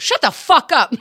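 mock snapping. Lauren snapping at drunk girl.

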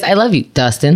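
imitated girlfriend. Co-host showing how she said her love line, imitated girlfriend. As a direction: drop the pitch and copy her reluctant declaration. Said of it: "she went like this".

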